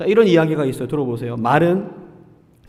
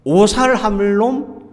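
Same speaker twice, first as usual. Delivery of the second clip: Jeolla curse; 4 semitones higher, much slower than usual. Retold or imitated. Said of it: "또 뭐가 있을까요".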